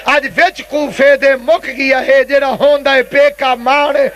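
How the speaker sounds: mournful verse in a preacher's retelling; tearful lament. Retold or imitated. Preacher repeats Zainab's lament to mourners, mournful recitation. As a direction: lightly imitate a weeping daughter, drawing out the words. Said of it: "رو رو کے زینب فرماتی ہے".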